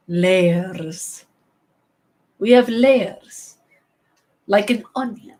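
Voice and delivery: slow, drawn-out Shrek impression; Shrek movie impression. Explaining ogres' layers to Donkey, Shrek impression. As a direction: play the ogre, stretching each word. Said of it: "Best moment of Shrek".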